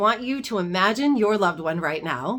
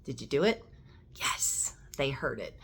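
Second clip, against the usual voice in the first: hushed; 7 semitones lower, 9 dB quieter than usual. Acted. Gentle check-in after the exercise.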